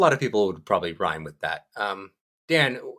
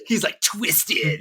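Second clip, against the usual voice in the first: sarcastic; 6 semitones higher, much slower than usual. Shown as a demonstration. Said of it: "I said that sarcastically".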